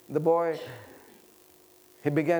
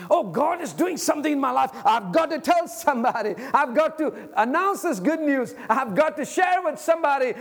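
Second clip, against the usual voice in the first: raised, urgent voice bursting with news; urgent excitement; 6 semitones higher than usual. Acted. Preacher voices Mary with news she must share, urgent excitement. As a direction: act out Mary hurrying to tell her good news. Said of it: "there was a sense of urgency".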